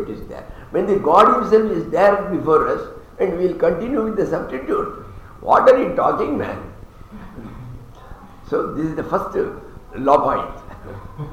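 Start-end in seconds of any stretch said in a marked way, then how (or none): 0.7-6.7 rising to a high, loud incredulous what are you talking; indignant retort. Retold or imitated. Gopis arguing with Krishna, high and incredulous. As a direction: scoff at the idea of a substitute.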